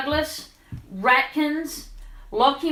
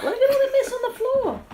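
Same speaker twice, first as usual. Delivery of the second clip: laughing; 12 semitones higher than usual. Real, not acted. Mess on floor, laughing.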